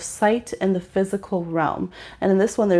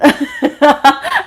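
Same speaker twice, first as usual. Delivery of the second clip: burst of laughter; 6 semitones higher, 6 dB louder than usual. Real, not acted. Laughing at the family story.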